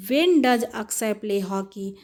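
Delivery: "When does अक्षय प्ले हॉकी?" said slowly, word by word; slow model question. Shown as a demonstration. Teacher modelling the formed question for pupils, slowly. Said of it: "हम लोगों ने question बना दिया".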